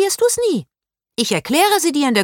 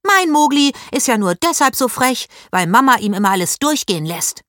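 put-on much higher and louder, indignant girl ranting; outraged shriek; 7 semitones higher, 4 dB louder than usual. A narrator's reading. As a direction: shriek it, then keep scolding hotly. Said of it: "Paula stieß einen Schrei aus".

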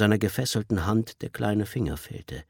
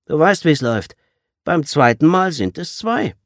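loud, higher cold threat; menacing threat; 9 semitones higher, 8 dB louder than usual. Acted. Gang leader threatens the captured boy, loud and menacing. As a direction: lay down the rule like a thug.

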